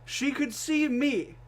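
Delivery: slow indignant stress on see; exasperated emphasis. Real, not acted. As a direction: drag each word out in disbelief. Incredulous retelling.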